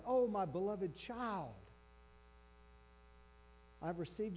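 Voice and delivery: lightly acted overindulgent father; doting parent. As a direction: coo at a beloved baby, in gentle parody. Imagined indulgent God addressing child.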